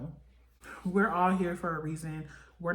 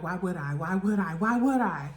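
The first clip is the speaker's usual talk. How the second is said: building mock yell; 4 dB louder than usual. Screaming at her.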